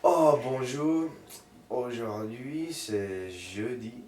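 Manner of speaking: slow, high sing-song recital; childlike recital. Retold or imitated. Recites first French words, childlike.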